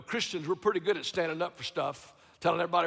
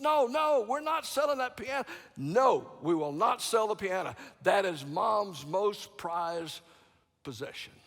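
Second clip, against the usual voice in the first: firm refusal; 3 semitones higher than usual. Retold or imitated. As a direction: dig in and refuse. Son refusing firmly.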